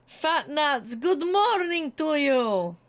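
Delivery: slow, stretched mock-posh "good morning to you"; drawn-out theatrical hello; playful greeting to a pet character; hammed-up greeting. Greeting a character named Fat Nuts.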